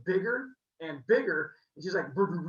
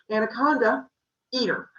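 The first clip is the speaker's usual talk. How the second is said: commanding; 5 semitones higher, 8 dB louder than usual. Acted. Hera commands the anaconda.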